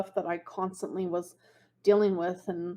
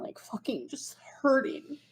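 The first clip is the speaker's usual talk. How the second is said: whisper; 5 semitones higher than usual. Real, not acted. Admitting hurt deep down.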